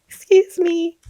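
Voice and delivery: high, playful little excuse me; sheepish excuse me. Retold or imitated. Vlogger mocking her own pestering of a spirit, sheepish. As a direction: play it as a sheepish intruder.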